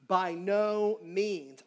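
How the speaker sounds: each word slow and weighty, held apart; preacher quoting Paul, slow and emphatic; emphatic refusal. Retold or imitated. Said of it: "a very emphatic way of saying no".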